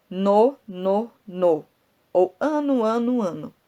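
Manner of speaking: stressing the ending ano again and again; rhyme sounds drawn out. Shown as a demonstration. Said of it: "percebe a rima que existe".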